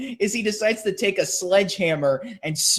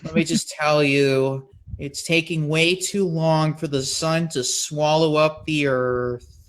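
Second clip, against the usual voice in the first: depressed; 2 semitones lower, slower than usual. Retold or imitated. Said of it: "very depressed".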